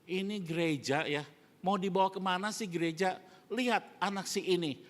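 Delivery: grumbling church member. Retold or imitated. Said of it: "Dia ngomongnya gini".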